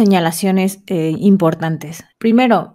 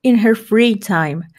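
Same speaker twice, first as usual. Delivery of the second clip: slow model sentence; slower than usual. Shown as a demonstration. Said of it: "Como ejemplo".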